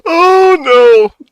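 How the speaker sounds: laughing. Real, not acted. Laughing fit at a picture.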